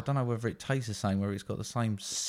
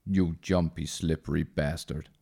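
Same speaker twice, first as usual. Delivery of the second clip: lower, slow tough-guy insult; lightly voiced Hellboy growling the insult; Hellboy insulting Kraus, lower and slow; 3 semitones lower than usual. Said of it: "a deep manly Hellboy".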